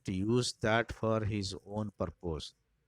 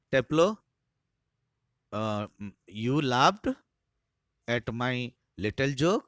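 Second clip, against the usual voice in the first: teacher's pointed question; 3 dB louder, much slower than usual. Acted. Teacher Harris to Taplow, suspicious, raised voice. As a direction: call the pupil out, suspicious.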